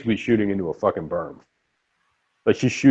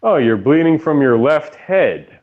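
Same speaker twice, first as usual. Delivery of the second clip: sarcastic operator; 3 semitones higher than usual. Retold or imitated. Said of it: "the nine one one operator's like".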